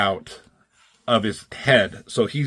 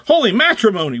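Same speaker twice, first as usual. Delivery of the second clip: higher and louder, soap-opera gasp; mock dramatic exclaim; 10 semitones higher, 6 dB louder, faster than usual. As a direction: announce it like a cliffhanger. Comic cliffhanger exclamation.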